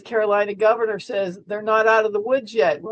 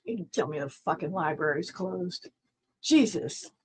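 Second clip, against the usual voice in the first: muttering; 2 semitones lower, 7 dB quieter than usual. Real, not acted. Muttered aside after apology.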